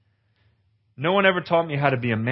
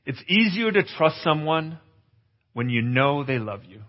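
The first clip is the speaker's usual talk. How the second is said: slow emphatic teaching. Shown as a demonstration. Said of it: "write this down".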